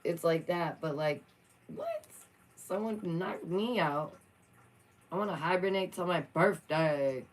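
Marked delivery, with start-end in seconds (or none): 1.7-7.2 mock-dazed squeak then drowsy mumble; dazed mouse voice. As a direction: play the groggy knocked-out mouse. Mimicking knocked-out mouse.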